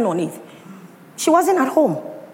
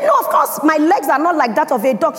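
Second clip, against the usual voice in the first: put-on child's protest; 3 semitones higher than usual. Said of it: "And I said".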